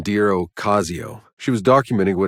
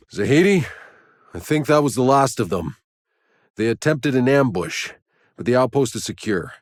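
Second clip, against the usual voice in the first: radio report; 5 semitones higher than usual. Acted. Explorer radioing Zahidi after the ambush, raised urgent call. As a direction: call out to your partner after the fight.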